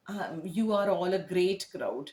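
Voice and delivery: slow, strained compliment to a dead crowd; comedian's hollow compliment; forced sarcastic praise. Shown as a demonstration. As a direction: drag out fake praise for a silent audience. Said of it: "A comedian telling an unresponsive audience".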